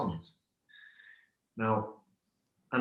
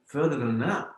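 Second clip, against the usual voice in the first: higher-pitched, lightly acted incredulous question; mildly baffled disbelief; 4 semitones higher, 3 dB louder than usual. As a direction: ask as if it won't compute. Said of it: "like he cannot compute that information".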